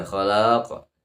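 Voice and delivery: "khalaq" with its second a stretched long; wrong lengthening. Shown as a demonstration. Teacher shows what to avoid, "khalaq" lengthened. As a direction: stretch the last vowel of "khalaq". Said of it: "Jangan dibaca".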